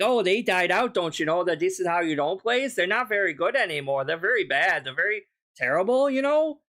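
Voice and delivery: a hint of Canadian accent mocking the streamer; lightly put-on Canadian accent, teasing. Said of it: "I went for Canadian there".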